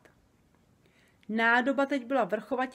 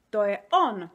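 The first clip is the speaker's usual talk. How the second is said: proud; 7 dB louder than usual. A narrator's reading. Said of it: "oznámil Obr Dobr pyšně".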